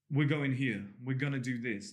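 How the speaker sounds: firm statement, leading the way; assertive command. Shown as a demonstration. Coach showing what to say to a woman, assertive command. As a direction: state it as a decision. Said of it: "This is more commands".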